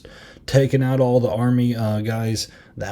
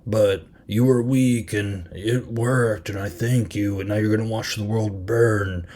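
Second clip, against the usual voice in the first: villain monologue. Retold or imitated. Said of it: "he gave the classic bad guy dialogue".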